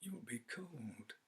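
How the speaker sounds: soft and gentle; tender. Acted. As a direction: coax her back to bed gently. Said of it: "he said tenderly".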